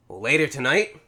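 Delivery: a slow hint of a sinister sorcerer; menacing villain line drawn out, lightly voiced; imitating a slow creepy villain taunt; Shang Tsung. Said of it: "his best Shang Tsung impersonation".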